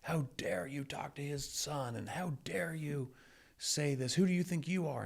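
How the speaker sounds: high, breathy whispered mock indignation; mock outrage. Internet commenters scolding him for advising a kid, in high mock outrage. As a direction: sneer it like a scandalised online commenter. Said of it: "This is like".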